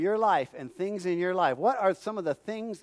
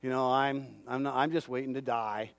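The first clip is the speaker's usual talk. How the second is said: low, soft, hopeless muttering; mock defeated mumble; 8 semitones lower, 5 dB quieter than usual. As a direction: act out a beaten-down voice, lower and quieter. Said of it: "walking around going".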